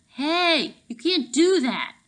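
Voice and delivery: high, loud protest; yelled. Acted. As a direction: shout at the big guard. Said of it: "Richie squatted beside his friends and yelled".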